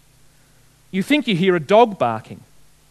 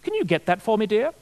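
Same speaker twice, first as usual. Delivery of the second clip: lightly voiced plummy English accent; a hint of plummy, upper-crust English; Queen Elizabeth the Second. Monarch calling to her husband from a tent, lightly plummy English. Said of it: "a very plummy voice".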